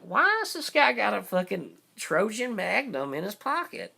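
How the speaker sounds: lightly acted incredulous question; puzzled onlooker. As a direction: imitate a baffled bystander. Voicing gawkers' puzzled thought.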